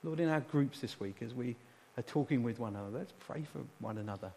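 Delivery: gentle, earnest prayer in pausing phrases; intercessory prayer. Real, not acted. Preacher praying a blessing on the congregation, gentle and earnest. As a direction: ask sincerely on the people's behalf.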